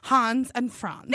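put-on German accent. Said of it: "Can you use an accent for part of it".

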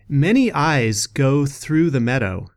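slow, measured recital; slow reading with spaced phrases; quotation reading. Acted. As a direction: read it out as trail wisdom, unhurried. Reads closing quotation.

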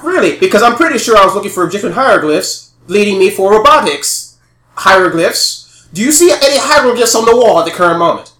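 loud, high, scornful berating; angry scolding. Acted. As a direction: tear into the scout. Villain berates the scout.

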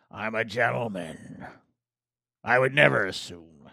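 slow, lightly voiced pirate; a hint of a pirate accent. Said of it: "I'm sounding like a pirate".

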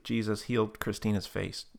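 measured prayer prompt; prayer leader's line. Retold or imitated. Leading Tab to pray for healing, measured prompt. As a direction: offer the phrase to be repeated. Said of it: "repeat after me prayer".

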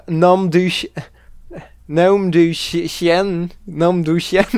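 French swear in a halting American accent; attempted American accent. Shown as a demonstration. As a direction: try "nom du chien" as an American would. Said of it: "try to do an American accent".

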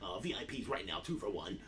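mock the preening DJ on the mic; strip club DJ voice. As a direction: DJ hyping the crowd, hammed-up announcer. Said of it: "he would do the voice".

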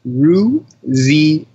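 Rouzier very slowly, syllable by syllable: roo-zee-AY; surname pronunciation demo. Shown as a demonstration. Guest teaching the hosts his surname, Rouzier in slow separate syllables. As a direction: spell out Rouzier by sound, French "ay" ending, no final R. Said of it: "tell us how to pronounce your last name".

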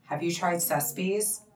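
Sespe's spoken slowly and carefully, SES-peez; careful pronunciation. Shown as a demonstration. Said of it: "I pronounced that right".

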